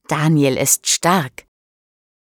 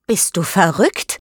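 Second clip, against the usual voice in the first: mildly cross question; a touch of indignation, narrated; angry; 2 semitones higher than usual. A narrator's reading. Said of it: "fragt Paula böse". (leicht böse gefragt)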